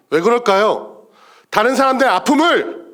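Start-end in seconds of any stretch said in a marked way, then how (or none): 1.5-2.8 high pulpit emphasis; impassioned preaching. Real, not acted. Preacher challenging those who enjoy others' pain, impassioned. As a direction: lift the phrase as a challenge.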